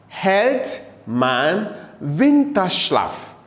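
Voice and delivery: slow, separated German words; careful teacher's dictation; model reading. Shown as a demonstration. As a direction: read it out slowly for learners to repeat. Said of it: "you read it after me".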